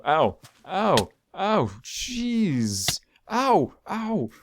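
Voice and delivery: sharp high yelps of pain, real. Real, not acted. Hurt in the game, yelping high ow. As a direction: yelp each hit as it lands.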